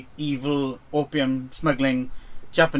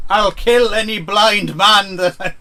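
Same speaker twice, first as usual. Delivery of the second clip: mock tough-guy threat; 4 semitones higher, 6 dB louder than usual. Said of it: "come in and say".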